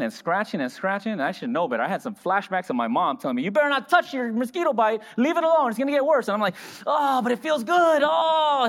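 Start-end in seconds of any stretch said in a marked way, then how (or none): 3.4-6.3 a hint of a stern mother, higher; lightly voiced mom warning a child; scolding mom. 6.8-8.7 slow, higher sigh of pleasure; hammed-up bliss while scratching; drawn-out groan of relief, then a louder cry; mock relief.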